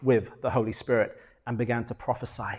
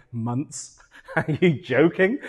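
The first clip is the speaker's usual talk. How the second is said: mock incredulous question with a laugh; laughing disbelief; slower than usual. The Lord in heaven laughing at his complaint, mock incredulous. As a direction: imitate an amused, scoffing reply. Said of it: "just, like, laughing".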